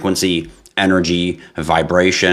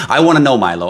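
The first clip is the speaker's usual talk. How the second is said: laughing; 7 semitones higher, 5 dB louder, much faster than usual. Real, not acted. Laughing after teasing a viewer.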